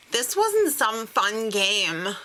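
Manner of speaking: slow, hammed-up indignation; mock pissed-off. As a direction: imitate her scolding him, drawing out the words. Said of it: "she was pissed".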